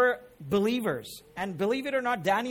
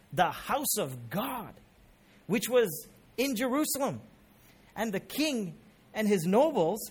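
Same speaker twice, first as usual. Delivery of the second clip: scripture reading. Acted. Reads scripture aloud to congregation.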